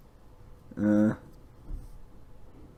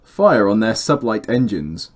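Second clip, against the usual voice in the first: voice line read; slower than usual. Shown as a demonstration. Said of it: "I'm gonna start again".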